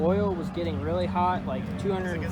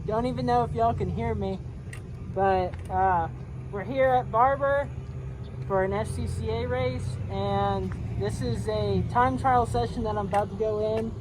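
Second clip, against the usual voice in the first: muffled through a helmet visor; talking inside a racing helmet; 5 semitones higher, 7 dB louder than usual. Real, not acted. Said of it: "sorry, my visor falls down a lot".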